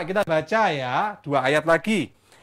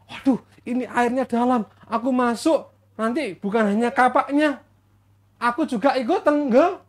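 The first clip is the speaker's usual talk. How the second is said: mildly anxious fretting; acted panic; 3 semitones higher than usual. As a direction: play a touch of alarm, mildly. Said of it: "langsung dia panik".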